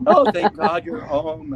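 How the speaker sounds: high, loud, drawn-out greeting; relieved partner. Acted. God's partner welcomes God home, loudly relieved. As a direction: greet them with exaggerated relief, slow and high.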